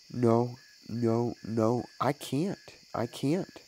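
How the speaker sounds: lightly voiced child, a touch of sobbing, slow; mild sobs of a boy in shame; understated tearful refusal. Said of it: "sobbed Harry in grief and shame".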